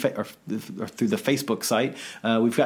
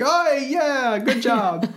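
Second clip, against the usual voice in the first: high, loud, laughing Australian bloke impression; mock Australian drawl, tongue in cheek; Aussie bloke voice; 4 dB louder, much slower than usual. Co-host mimics Aussie bloke listeners, mock Australian accent. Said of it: "our Aussie bloke friends are like".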